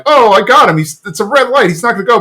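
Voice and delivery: high, loud gloating thought; mock triumph. Hank thinking he trapped Alabaster, high mock triumph. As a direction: imitate someone sure of his trap. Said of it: "Hank's thinking".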